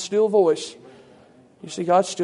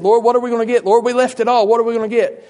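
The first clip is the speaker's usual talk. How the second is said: higher, louder acted protest; disciple's indignant plea, hammed up a little; complaining appeal; 4 semitones higher, 5 dB louder than usual. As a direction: protest to the Lord, pitched up.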